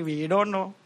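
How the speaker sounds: light Malayali accent, lightly voiced. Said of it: "In a Malayali accent somehow".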